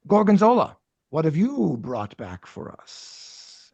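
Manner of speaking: regal Rat King calling a subject forward; grand and slow. Acted. Rat King summoning his scavenger, regal.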